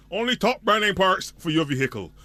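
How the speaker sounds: upbeat announcer reading an ad; radio ad read. Acted. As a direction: sell it like a radio spot. Reads a radio ad.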